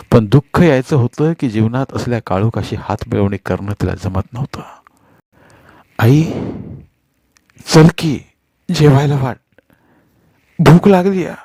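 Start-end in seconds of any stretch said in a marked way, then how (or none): 6.0-11.3 put-on higher child voice, tugging for food; a little boy nagging his mother to eat; child asking mother. A narrator's reading. Hungry son tugging at his mother, small child voice. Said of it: "सुन्याच्या पदर ओढण्यानं".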